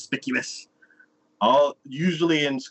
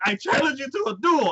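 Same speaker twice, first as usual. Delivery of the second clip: mock dramatic challenge. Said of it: "then he's like".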